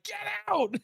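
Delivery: very high, strained squeal of outrage at normal volume; mock outraged yell. Chef ordering stepdad away from the dishwasher, high mock yell. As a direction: act out a squeaky, exasperated banishing.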